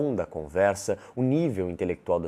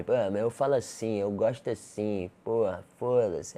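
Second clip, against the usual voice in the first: slangy objector; 2 semitones higher than usual. Acted. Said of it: "do jeito que você fale".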